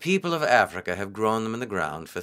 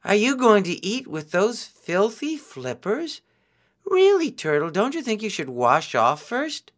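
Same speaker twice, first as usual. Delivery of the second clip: shouting; 9 semitones higher than usual. A narrator's reading. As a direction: yell at him to stop. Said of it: "Anansi shouted".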